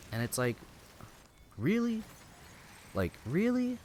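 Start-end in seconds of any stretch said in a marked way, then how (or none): 1.6-3.8 incredulous. Real, not acted. Incredulous disbelief at her demands.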